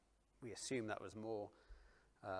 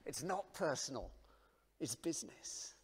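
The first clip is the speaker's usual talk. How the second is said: quoted in a whisper; 2 semitones higher than usual. Retold or imitated. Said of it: "I thought, "No".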